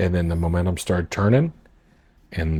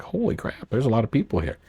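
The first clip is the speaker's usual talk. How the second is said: stunned whisper; 4 semitones higher, 3 dB quieter than usual. Retold or imitated. Stunned at the big turnout.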